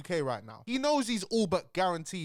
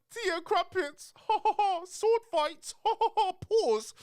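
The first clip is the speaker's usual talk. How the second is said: mock posh British; much slower than usual. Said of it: "it's like".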